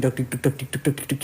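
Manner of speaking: soft imitated heartbeat, deg-deg; heartbeat noise. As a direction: tap out a racing heart with the voice. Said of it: "Udah deg-degan asli". (tiruan detak jantung yang pelan)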